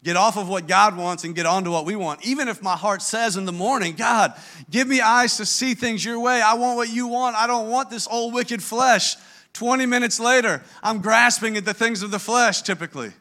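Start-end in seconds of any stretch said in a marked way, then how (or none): 3.9-9.1 higher-pitched, earnest mock plea to God; acted fervent prayer. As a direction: act out an eager morning prayer. Acting out his morning prayer.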